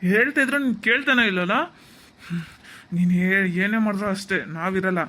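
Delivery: loud, storming-off yell; furious shout. Acted. Son yelling at mother as he walks out with Uma, loud. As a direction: shout the final word and leave.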